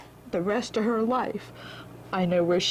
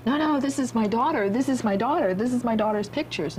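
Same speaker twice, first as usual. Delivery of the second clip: insistent excitement; 4 semitones higher than usual. Retold or imitated. Insisting to the mail lady.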